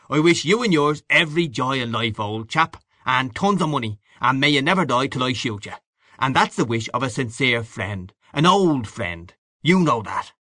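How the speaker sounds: hearty congratulating Gallagher. Acted. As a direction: offer expansive good wishes to an old friend. Gallagher congratulates his friend.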